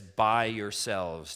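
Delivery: BY YOURSELVES drawn out slow and loud; emphatic. Acted. Preacher showing the congregation Christ's exact words, emphatic. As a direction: stretch out "By yourselves" with weight. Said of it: "that's very emphatic".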